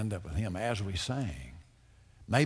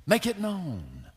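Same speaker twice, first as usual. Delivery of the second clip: high, slow, louder pleading prayer; fervent plea; 7 semitones higher, 3 dB louder, slower than usual. Acted. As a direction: cry out to God, drawing each word out. Preacher pleading prayer aloud.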